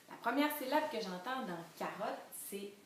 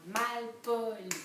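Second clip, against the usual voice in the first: MALPOLI slow, each syllable loud and separate; découpé en syllabes; 3 semitones higher, 5 dB louder, much slower than usual. Shown as a demonstration. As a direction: stretch "Malpoli" into three clear beats. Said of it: "On a trois syllabes". (« Malpoli » lentement, syllabe par syllabe)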